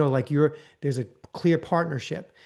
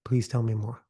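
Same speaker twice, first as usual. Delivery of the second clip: eager leaning in; 3 semitones lower than usual. Shown as a demonstration.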